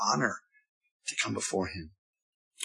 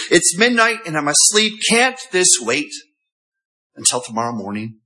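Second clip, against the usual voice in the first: groggy voice. Acted. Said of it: "answers with that groggy voice".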